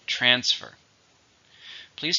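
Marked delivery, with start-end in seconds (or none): 0.1-0.7 "Transfer" stressed on TRANS; stress on first syllable. Shown as a demonstration. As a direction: say "Transfer" leaning on TRANS, lighter on fer. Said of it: "Stress on the first".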